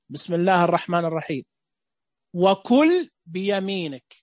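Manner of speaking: put-on firm, commanding instruction to a child; commanding orders. Shown as a demonstration. Teacher demonstrates giving eating rules as firm orders. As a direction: give it as a plain order, no softness. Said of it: "أوامر".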